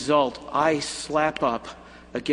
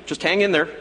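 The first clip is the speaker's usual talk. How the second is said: firm, upbeat encouragement; encouraging; 2 semitones higher, faster than usual. Pretend. Jesus encouraging John to hold on, firm and upbeat. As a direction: urge him to hold on.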